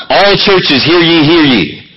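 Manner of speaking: town crier calling out; hammed-up herald proclamation; mock royal decree. Mock public announcement of sin.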